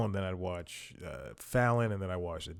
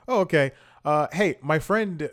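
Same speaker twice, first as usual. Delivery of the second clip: higher, louder, lightly imitated Italian stranger; Italian accent; 6 semitones higher, 7 dB louder than usual. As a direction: pitch it up with a touch of Italian accent. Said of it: "I think it might be Italian".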